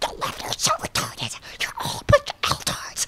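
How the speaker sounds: exaggerated raspy put-on voice. Acting out a ranting video persona, the speaker uses an exaggerated raspy voice. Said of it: "I start doing this really raspy voice where I stick my teeth out".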